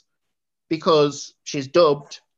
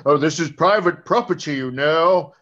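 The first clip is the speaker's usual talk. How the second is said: mock Scottish accent. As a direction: lightly play a stern Scottish islander. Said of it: "in a Scottish accent".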